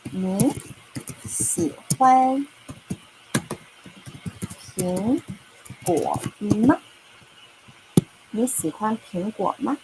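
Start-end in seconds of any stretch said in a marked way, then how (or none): 0.1-6.8 你, 喜欢, 苹, 果, 吗 each said apart with long pauses; teacher spelling out a question word by word. Shown as a demonstration. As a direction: break the sentence into single words. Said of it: "Let me tell you".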